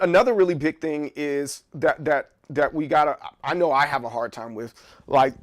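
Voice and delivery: talking while chewing gum; words round a wad of gum. Real, not acted. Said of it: "I'm chewing gum right now".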